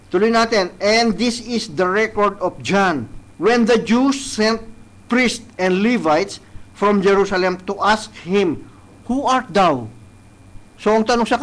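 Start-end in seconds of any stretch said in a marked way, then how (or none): 0.8-9.9 slow, solemn Bible reading; measured King James reading; scripture reading. Acted. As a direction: read each verse deliberately. Reads scripture aloud, slow.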